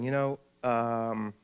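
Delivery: slow, overly polite correction; a touch of prim politeness. Retold or imitated. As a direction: correct her gently and sweetly. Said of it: "she said very politely".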